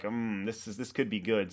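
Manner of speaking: mock schemer's relish; imitating scheming coworker. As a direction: savour a wicked idea under your breath. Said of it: "starts putting his fingers together like".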